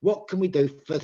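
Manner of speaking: "for" reduced to "fuh" in connected speech; natural weak forms. Shown as a demonstration. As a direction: link the words, weaken "can" and "for". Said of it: "if I say that naturally".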